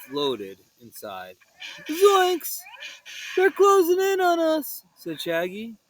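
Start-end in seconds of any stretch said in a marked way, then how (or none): 1.9-4.8 panicked. Acted. Ghosts approaching.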